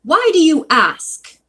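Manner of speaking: suspicious, pointed question; demanding. A narrator's reading. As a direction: demand an explanation as the shopkeeper. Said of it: "the proprietor demanded".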